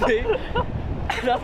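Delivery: talking with a numb cold mouth; words thick from frozen tongue; numbed throat. Real, not acted. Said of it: "My tongue is so numb".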